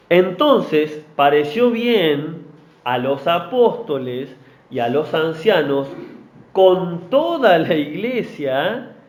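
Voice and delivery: slow, deliberate Bible reading; scripture reading. Acted. Preacher reading scripture to the congregation, slow and deliberate. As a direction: read the verses slowly to the church.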